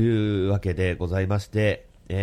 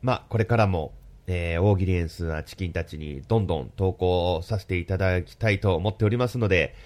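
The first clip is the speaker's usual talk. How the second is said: blocked nose from hay fever; stuffy nose. Real, not acted. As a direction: speak through a stuffy nose. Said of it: "鼻声ではあるんですけれども".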